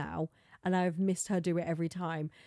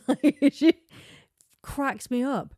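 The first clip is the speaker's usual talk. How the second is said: high, loud laughing burst; 6 semitones higher, 8 dB louder, slower than usual. Real, not acted. Vlogger laughing about Sammy, high and loud. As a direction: crack up at the memory.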